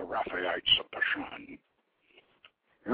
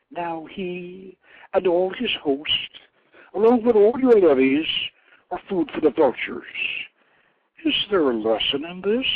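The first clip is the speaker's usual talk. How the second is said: higher, louder goddess mocking the defeated; taunting war goddess; 7 semitones higher, 7 dB louder than usual. A narrator's reading. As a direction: rub his defeat in like a cruel goddess. Anath taunts the defeated king.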